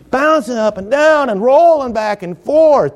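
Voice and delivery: chuckling description of the ark tossing; laughing. Real, not acted. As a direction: laugh while picturing the rocking boat.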